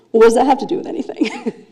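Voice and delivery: flustered, laughing question; blushing girl deflects with a laugh; embarrassed laugh. Retold or imitated. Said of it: "she turns beet red".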